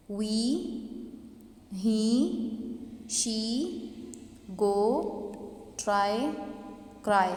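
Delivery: "we, he, she, go, try, cry", each final vowel held long; long end vowels. Shown as a demonstration. Teacher showing students syllable-final vowels, long vowels in "we, he, she, go, try, cry". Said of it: "वो long हो जाती है".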